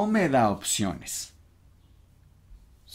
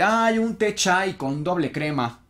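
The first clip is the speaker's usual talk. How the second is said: higher-pitched, gushing mock drink order; mock customer; 6 semitones higher than usual. Teacher imitating a student ordering a drink, higher mock voice. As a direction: imitate a customer sighing over a fancy order. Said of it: "No me vas a decir".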